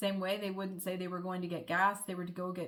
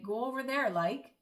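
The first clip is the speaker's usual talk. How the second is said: Irish like at the end; 4 semitones higher, 3 dB louder than usual. Shown as a demonstration. Showing how the Irish add like, Irish sentence-final like. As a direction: Go over there said higher, like tagged on with a rise. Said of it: "they would say".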